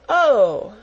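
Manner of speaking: fond little exclamation; warm cry. A narrator's reading. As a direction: let it catch with tender surprise. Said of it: "with a warm feeling in her heart".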